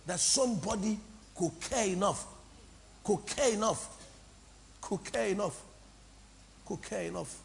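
softly repeated, fading away; moved. Real, not acted. Pastor touched that somebody prayed for them, moved and hushed.

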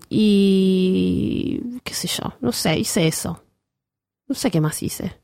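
slow, breathless whispered aside. Real, not acted. Telling her friend about her trip, dropping to a whisper. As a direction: drop to a whisper as if sharing a secret.

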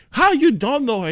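high incredulous question; disbelieving boss. Retold or imitated. Boss questioning the bouncer, high incredulous. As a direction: ask it in disbelief.

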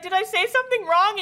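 high, anxious mock question; imitating an upset anime girl; worried girlfriend. Voicing worried girlfriend in retelling.

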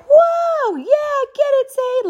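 high-pitched whooping cheer, imitated; cheering him on. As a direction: whoop like a kid cheering for a brother. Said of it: "like, cheering him on".

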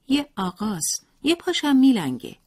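put-on high child voice, chattering on; a child blurting out a secret without knowing it; innocent little boy. A narrator's reading. Boy tells father about visitor. (صدای کودکانهٔ زیر و معصوم)

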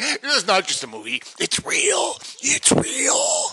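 very high mock squeal, climbing on each real; hammed-up tearful insistence; imitating wife. Husband mimics wife insisting the film is real, in a squeal. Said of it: "And I'm like".

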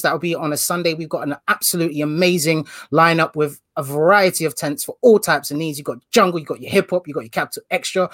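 upbeat radio DJ plug. Shown as a demonstration. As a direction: read it like a radio ad. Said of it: "I'm putting my radio voice on".

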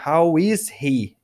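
slow, clearly spaced words; teacher drilling slowly; slow teaching model. Shown as a demonstration.

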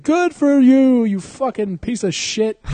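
slow, high, loud mock tirade; hammed-up furious yelling; Christian Bale yelling. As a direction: drag it out as an enraged star's rant. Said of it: "he's yelling at that fucking P A".

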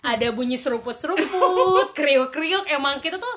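talking while eating snacks. Real, not acted. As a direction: speak between bites of crunchy snacks. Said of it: "chill aja gitu sambil makan".

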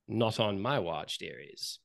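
low, quiet protective shopkeeper; lightly voiced Fala figure. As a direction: speak low, letting line ends drop away. Game master voices Fala.

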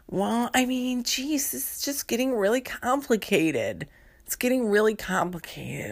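a clerk drowning in a simple request; overwhelmed librarian. Acted. On the phone, the librarian whines at the caller, high and overwhelmed. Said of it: "That's me".

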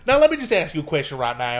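lightly voiced conspiracy host; a hint of blustering radio-host voice; Alex Jones impression. Host grilling a senator, lightly imitated bluster. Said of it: "an Alex Jones-like character".

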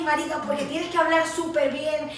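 talking with a mouthful of food; chewing while talking. Real, not acted. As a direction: speak around a bite, chewing. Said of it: "estás hablando con la boca llena".

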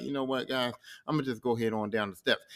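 easy low voice, mildly acted; calm, unbothered. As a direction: let them off gently, low and relaxed. Imagined calm Smart Hulk bowing out.

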